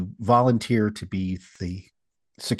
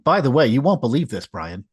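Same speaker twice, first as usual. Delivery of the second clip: mock-shocked, fast and raised; sarcastic; 3 semitones higher, 3 dB louder than usual. Shown as a demonstration. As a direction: sell the fake shock. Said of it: "I'm being sarcastic".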